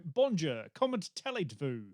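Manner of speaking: imitating French with a broad Australian accent; mock an Australian tourist's French; bad Australian-accented French. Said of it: "French words in a bad Australian accent".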